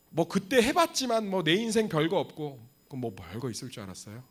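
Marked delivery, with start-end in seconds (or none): 0.1-2.7 mock sulky retort. Preacher mocks a resigned believer.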